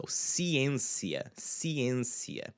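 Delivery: "ciencia" slowly, the stressed e nasalised; nasal ê. Shown as a demonstration. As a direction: let the e in "ciencia" ring through the nose before n. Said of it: "nasally sound with it".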